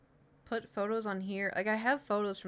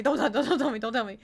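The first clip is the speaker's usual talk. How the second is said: higher, louder, breaking into laughter; laughing plea; 3 semitones higher, 7 dB louder, faster than usual. Real, not acted. Viewer begging not to be told, laughing plea. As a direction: stammer the plea through real laughter.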